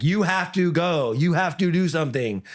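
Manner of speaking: slow, emphatic plea; frustrated urging. Retold or imitated. Coach to fighter in round three, frustrated urging. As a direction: urge them on with mounting frustration. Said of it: "it gets really frustrating".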